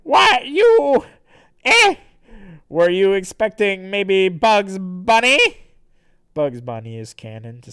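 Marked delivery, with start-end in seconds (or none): 0.0-5.4 high, loud blustering villain; hammed-up startled barks, then a taunt; Santa. Villain meets Sonic, loud theatrical bluster. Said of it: "And then Santa says".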